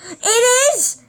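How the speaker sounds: high, laughing protest; laughing retort. Retold or imitated. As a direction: laugh it back at her, cheeky. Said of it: "And then I'm like".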